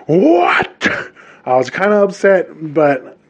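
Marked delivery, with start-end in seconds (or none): 0.1-0.9 high, cracking outraged squeal; outraged what. Retold or imitated. Hearing a stranger say talofa, a squealing what. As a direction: shriek it in disbelief.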